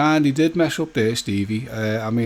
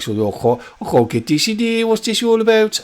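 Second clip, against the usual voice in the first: mock-baffled quote, pitched high; imitating Stevie's rant; 9 semitones higher, 4 dB louder than usual. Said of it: "I won't do the accent".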